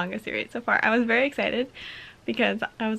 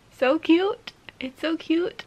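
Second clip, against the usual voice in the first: higher-pitched delighted gushing; higher, squealy delight; 6 semitones higher, much slower than usual. Real, not acted. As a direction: melt over how cute it is. Gushing over cat manga.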